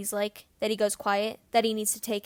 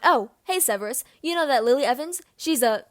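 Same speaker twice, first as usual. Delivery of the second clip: mocking mimicry; 4 semitones higher, 6 dB louder than usual.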